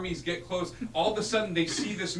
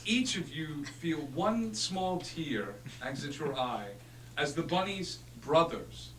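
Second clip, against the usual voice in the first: epic narration. Acted. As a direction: narrate it like a legend.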